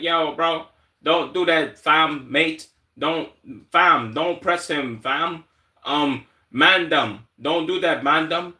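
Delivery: hammed-up British roadman pleading with his mate; British accent. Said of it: "That's how I think they talk".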